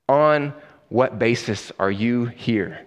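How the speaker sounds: low, slow, spaced-out question; flabbergasted but held in, word by word; understated frustration. Acted. Frustrated angel questioning the thief, slow and low. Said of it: "Flabbergasted, frustrated. The angel says".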